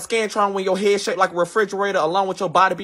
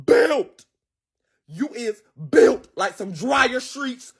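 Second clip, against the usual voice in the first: drawn-out roast build-up; slower than usual. Acted.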